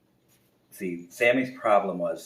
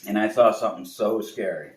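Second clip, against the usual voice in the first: higher, louder, slow, half laughing; scared bear; 7 semitones higher, 9 dB louder than usual. Acted. Bear to the owl, slow scared report. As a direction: report it like a spooked cub. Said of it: "He says".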